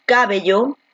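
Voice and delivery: slow demo, CÁbello; misplaced stress. Shown as a demonstration. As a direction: wrongly punch CA in "cabello". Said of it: "Donde la fuerza de voz está aquí en B".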